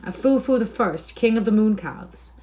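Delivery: high, excited cry; high-pitched heckler's suggestion, not full scream; mild shriek. A narrator's reading. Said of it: "A tinker shrieked out".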